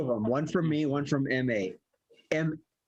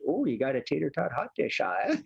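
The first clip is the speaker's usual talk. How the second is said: Midwestern pickup line. Retold or imitated. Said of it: "Marissa nailed the pickup line when she said".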